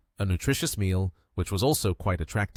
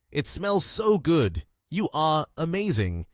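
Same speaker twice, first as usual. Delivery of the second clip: delighted praise; 6 semitones higher than usual. A narrator's reading. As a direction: praise the cook in a raised pitch. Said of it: "clapped his hands in delight".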